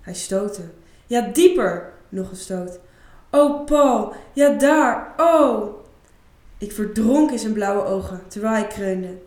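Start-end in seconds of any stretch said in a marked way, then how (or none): 1.1-1.9 passionate cry. Acted. Isa crying out during sex with Paul, passionate. 3.3-5.8 high, loud ecstatic moans; moaning. Acted. Isa moaning loudly to Paul at the climax, ecstatic.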